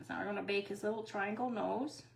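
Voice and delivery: talking on the move; words while walking around. Real, not acted. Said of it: "It's kinda hard to walk and talk".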